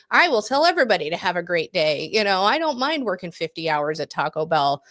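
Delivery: imitated chipper enthusiasm, swooping pitch; quick, lightly perky quote; zest for life. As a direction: play an eager young worker, lightly. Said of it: "She just had a zest for life".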